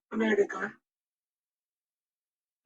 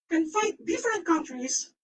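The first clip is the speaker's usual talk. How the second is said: exasperated; 7 semitones higher than usual. Real, not acted. Baffled rant about Japan.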